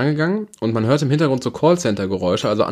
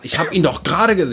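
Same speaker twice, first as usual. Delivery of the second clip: retold rant; 5 semitones higher than usual. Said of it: "ich bin wirklich richtig ausgetickt".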